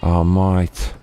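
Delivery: put-on high, hammy Aussie-style accent; bad South African accent. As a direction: ham up a clumsy South African twang. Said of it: "That's a bad South African accent".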